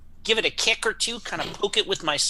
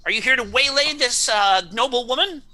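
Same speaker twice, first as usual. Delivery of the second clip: knight voice; 8 semitones higher, 5 dB louder than usual. Acted. Knight challenging the stranger.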